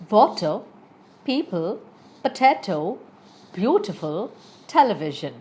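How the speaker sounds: "water, people, potato, beautiful, television" with each stressed syllable punched; teacher's examples from "water" to "television", hitting WA, PEO, TA, BEAU, TEL; stressed syllables shown. Shown as a demonstration. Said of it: "purposely mentioned it in capitals".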